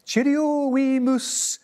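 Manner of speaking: high, nervous goodbye; scurrying off in a fright; hasty snake farewell. A narrator's reading. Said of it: "he said".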